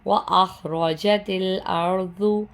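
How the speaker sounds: the ج in وَأَخْرَجَتِ sounded clearly and distinctly; clear jeem sound. Shown as a demonstration. Teacher demonstrating وَأَخْرَجَتِ with a distinct ج. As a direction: make the ج in وَأَخْرَجَتِ audible and distinct. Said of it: "جیم کی آواز کو ظاہر کر کے پڑھیں گے".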